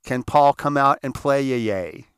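put-on slow, drawn-out childlike request; imitating kids. Grown friends asking for Paul to play, childlike chant. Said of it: "we said the same thing we did as kids".

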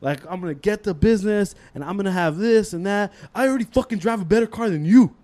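put-on indignant rich-kid comeback; boastful retort. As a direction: brag back at the teacher as the student. Student boasting back at teacher.

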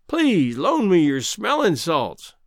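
slow, hammed-up plea for smelling salts; mock pleading. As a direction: beg for the salts like a fainting lady. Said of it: "pleaded Greenbrier".

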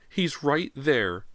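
high, long drawn-out cry; shrieking. A narrator's reading. Mother points to her son, high drawn-out shriek. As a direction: stretch the shriek across each word. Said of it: "Missus Fraser shrieked".

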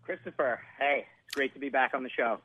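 muffled and distant, like underwater; boxed-in, far-off phone line; sounds like in a submarine. Real, not acted. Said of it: "You sound far away and in, and like you're in a submarine".

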